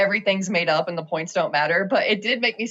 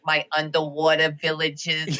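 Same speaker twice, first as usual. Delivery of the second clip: put-on droid with a thick Boston accent; 4 semitones lower than usual. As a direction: say it like a Boston local. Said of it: "like, a Boston accent".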